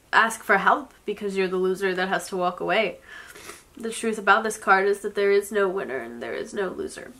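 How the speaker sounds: ordinary delivery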